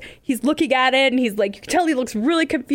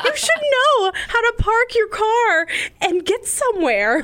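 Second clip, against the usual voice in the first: laughing scolding; 6 semitones higher, slower than usual. Retold or imitated. Mocking boyfriend, laughing.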